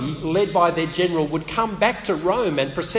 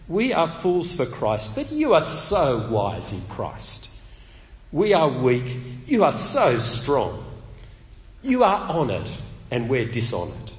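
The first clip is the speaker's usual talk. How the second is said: biting irony; 2 semitones lower than usual. Shown as a demonstration. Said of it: "Do you hear the tone?".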